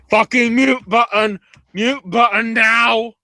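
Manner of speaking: high, loud mock shout; hammed-up urgent command; imitated frantic order. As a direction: yell it like a panicked producer. Imitates Dunn barking orders.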